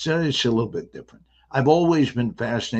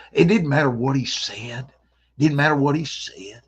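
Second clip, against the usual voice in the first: lightly imitated old buddy; a hint of a comical friend's voice; buddy's funny voice; 3 semitones higher than usual. Actor imitates his buddy from years ago, lightly comic voice. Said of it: "he sounded like this".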